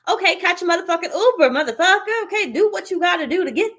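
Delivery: exasperated yell. Real, not acted. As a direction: blast it at them in frustration. Exasperated advice to lazy client.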